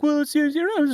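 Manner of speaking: high, mumbled mock British; garbled English accent. Shown as a demonstration. American mocking England's accents, garbled and high. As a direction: dissolve into gibberish British. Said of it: "In England, it's like".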